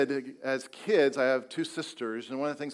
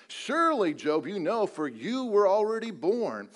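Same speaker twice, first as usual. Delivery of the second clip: sarcastic God. Acted. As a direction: tease Job with heavy sarcasm. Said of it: "hear the sarcasm in God's voice".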